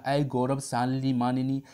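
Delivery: with great affection; a hint of a lover's tenderness; lovingly. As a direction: coax her lovingly. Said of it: "बड़े प्यार से बोल रहा".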